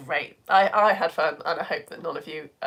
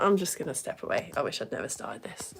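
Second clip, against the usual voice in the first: mock despair; 6 semitones lower, 7 dB quieter than usual. Real, not acted. Gives up on forgotten word.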